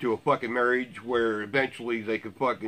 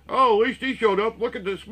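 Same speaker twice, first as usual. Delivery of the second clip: higher, gushing mock admiration; mock praise; 8 semitones higher than usual. Vlogger mocks people praising the rifle guy, lightly gushing mock voice. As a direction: fawn over him like a starstruck fan. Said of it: "everybody's praising".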